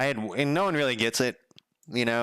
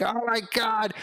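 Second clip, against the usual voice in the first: awed gasp; 12 semitones higher than usual. Retold or imitated. Delivery guy overwhelmed.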